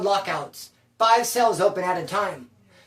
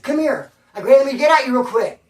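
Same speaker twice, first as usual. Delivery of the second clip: higher-pitched retold call through a window; urgent mock summons, pitched up; 5 semitones higher, 6 dB louder than usual. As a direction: call him over, voice lifted.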